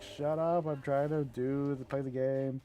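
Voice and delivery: mildly exasperated mock yell; imitated pissed gamer. Guild mate trying to play over his bird, mock-angry. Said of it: "like, so pissed".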